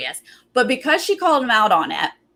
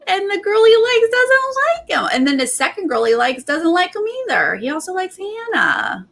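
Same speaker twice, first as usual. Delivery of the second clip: high-pitched, exaggerated pity; mock lament; 9 semitones higher than usual. Real, not acted. Recapper on his failed showmance hopes, high mock lament. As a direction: pitch it high, bemoaning someone's hopeless luck.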